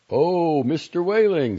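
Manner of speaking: high, loud exclamation of surprise; surprised greeting. Acted. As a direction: exclaim as you suddenly notice him. Doctor suddenly notices the waiting father.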